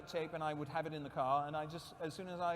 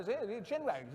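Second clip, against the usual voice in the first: lightly higher English-gentleman RP; uncle's RP accent; 6 semitones higher than usual. Retold or imitated. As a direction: imitate an old-school RP chin wagger. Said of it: "a proper received pronunciation accent".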